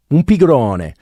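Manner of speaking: playful Italian sing-song; lilting Italian. Shown as a demonstration. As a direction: sing out the Italian melody as an example. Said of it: "There's a lot of lilt and fall in Italian".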